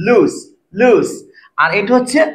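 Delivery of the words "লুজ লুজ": লুজ with a long oo; lengthened vowel. Shown as a demonstration. Teacher shows students the long vowel in লুজ. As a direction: stretch the oo in লুজ. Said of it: "উচ্চারণটা lengthy করবো".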